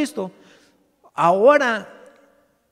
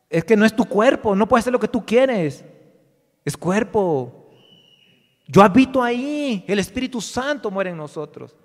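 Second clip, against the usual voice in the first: God disciplining believers; 3 semitones higher, 6 dB louder than usual. Acted. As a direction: scold the congregation as God would.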